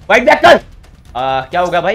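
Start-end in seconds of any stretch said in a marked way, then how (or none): 0.1-0.6 high, loud demand; impatient combat shout; shouted challenge. Real, not acted. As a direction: goad the opponent at full voice. Urging the opponent to fight back.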